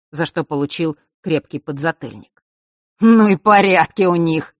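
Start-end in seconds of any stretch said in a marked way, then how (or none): 3.0-4.5 laughing exclamation. A narrator's reading. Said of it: "хохотнул Марк".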